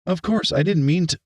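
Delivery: high-pitched, flustered backtracking; flustered stutter. A narrator's reading. Rebuked teacher backs down to the mayor, flustered. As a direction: stammer an apology after a scolding. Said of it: "Erica stuttered".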